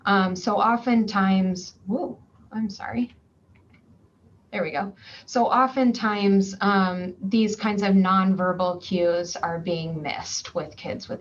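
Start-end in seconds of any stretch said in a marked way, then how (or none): 1.9-4.9 a quick whispered apology; whispered aside. Real, not acted. Lecturer apologising to viewers for a glitch, whispered. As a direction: breathe it out under your voice, surprised. Aside during a recording mishap.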